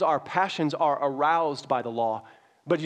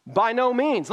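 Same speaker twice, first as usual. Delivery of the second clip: emphatic denial; 8 semitones higher, 4 dB louder, slower than usual. Acted. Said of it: "Look, exclamation point".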